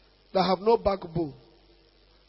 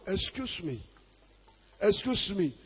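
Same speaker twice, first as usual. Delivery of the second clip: timid interruption; 7 dB quieter than usual. Retold or imitated. Neighbour knocking during noisy prayer, soft interruption. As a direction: interrupt softly, as if at someone's door.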